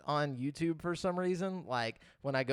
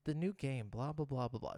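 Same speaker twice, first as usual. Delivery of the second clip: softer, lightly put-on YouTuber voice; 6 dB quieter than usual. Shown as a demonstration. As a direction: give it a hint of video-narrator delivery. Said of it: "listen to my YouTuber voice".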